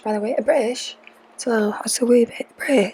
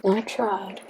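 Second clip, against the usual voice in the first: resigned trailing repeat; 6 dB quieter than usual. Real, not acted. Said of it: "I tried, y'all".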